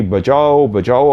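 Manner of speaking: mild mock cry for help; retold scream. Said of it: "ज़ोर ज़ोर से चीख रही थी". (चीख की हल्की नकल)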